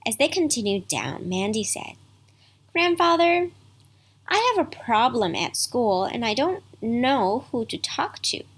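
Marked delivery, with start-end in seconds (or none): 2.7-8.4 put-on hesitant child. Mandy confiding a school problem.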